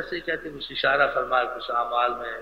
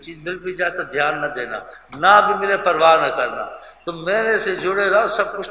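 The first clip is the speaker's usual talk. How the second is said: raised, louder voice of appeal; retold earnest urging; 4 semitones higher, 5 dB louder than usual. Master tells companions to stay attached, earnest urging. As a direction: urge them insistently, drawing out the plea.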